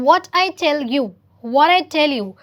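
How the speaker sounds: loud, emphatic told-you-so; gloating I told you. Acted. Teacher acting out the movie character, loud told-you-so. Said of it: "He says".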